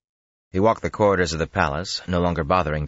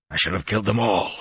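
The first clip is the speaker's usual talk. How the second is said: higher-pitched, understated rage; raging; 4 semitones higher than usual. A narrator's reading. Lews Therin rages in Rand's head, mildly voiced rage. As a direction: let a mild rage lift the voice. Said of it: "Rand let him rage".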